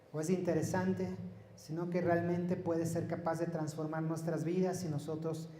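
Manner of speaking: oración en voz contenida, algo más suave. Real, not acted. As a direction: ora al Señor por la congregación, sin proyectar la voz. Dirige una oración. (rezar en voz más baja)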